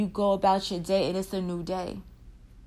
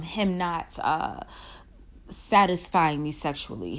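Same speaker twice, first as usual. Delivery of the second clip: surrender prayer. Shown as a demonstration. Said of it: "we're gonna say a prayer at the end of this".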